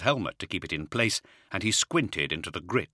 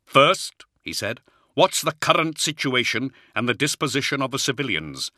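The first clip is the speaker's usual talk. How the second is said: lightly voiced firm commander; calm authority reassuring the colonel; commanding lord; 7 semitones higher, 4 dB louder than usual. Commander's voice held by narrator.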